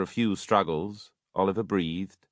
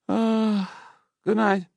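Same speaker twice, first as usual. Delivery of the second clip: much higher, louder airy goodbye; surgeon; 4 dB louder, slower than usual. A narrator's reading. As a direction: toss off a breezy goodnight. Surgeon leaving.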